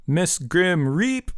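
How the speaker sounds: hooted. A narrator's reading. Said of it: "she hooted".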